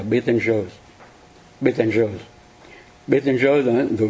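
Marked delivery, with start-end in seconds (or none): 0.0-0.7 BETELGEUSE the French way, "be-ten-zhơ"; French pronunciation. Shown as a demonstration. Teacher naming the red star as the French do, French pronunciation. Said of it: "bên Pháp đó, hoặc là ngày xưa đó thì nó gọi là". 1.6-2.2 Betelgeuse as "be-ten-zhơ"; French pronunciation. Shown as a demonstration. Teacher repeating the star's old name Betelgeuse, French "be-ten-zhơ". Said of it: "bên Pháp đó, hoặc là ngày xưa đó thì nó gọi là".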